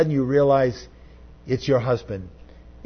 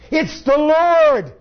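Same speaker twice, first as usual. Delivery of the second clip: much higher, louder, slow exclamation; excited cry; 12 semitones higher, 5 dB louder, much slower than usual. Acted. Disciple tells Peter he recognizes Jesus, slow excited cry. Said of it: "He said to Peter".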